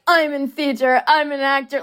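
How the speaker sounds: mock an overacting theater type; over-the-top actor. Actress mocking actors who overact, over-the-top. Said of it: "those over-the-top actors that overact".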